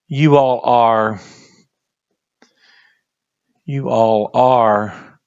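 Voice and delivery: you all are, you all are drawn out slowly; slow emphatic repeat. Shown as a demonstration. Teacher to class, dwelling slowly on "you all are". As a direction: lean on each word, say it slowly twice. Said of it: "Then he says same thing here".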